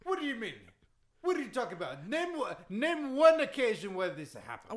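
put-on indignant, accented list of victims; Iron Sheik. Wrestler boasting to a doubting host, indignant accent. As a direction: insist on it in broken English. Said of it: "that Iron Sheik impression".

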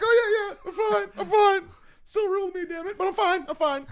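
very high, squeaky hammed-up weepy voice; mock tearful. Fan telling his wrestling hero he's okay, mock tearful squeal. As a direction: imitate an overwhelmed fan insisting through mock tears. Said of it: "It's a little emotional".

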